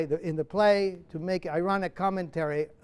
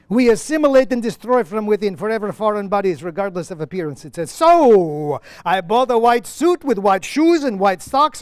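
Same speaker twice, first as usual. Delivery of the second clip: louder, impassioned play reading; Lemkin's monologue; 3 semitones higher, 5 dB louder than usual. Acted. Lemkin answering Petronius from the play, louder and impassioned. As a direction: proclaim it like a driven man with a cause.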